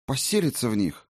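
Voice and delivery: halting, with pauses between words; reluctant, broken-up delivery; forced-out question. A narrator's reading. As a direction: squeeze the question out hesitantly. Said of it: "выдавила она наконец".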